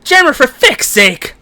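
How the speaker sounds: loud, drawn-out Irish exclamation; exasperated cry in a broad Irish accent. Shown as a demonstration. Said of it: "phrase I use to get into an Irish accent is".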